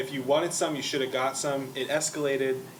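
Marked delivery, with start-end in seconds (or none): none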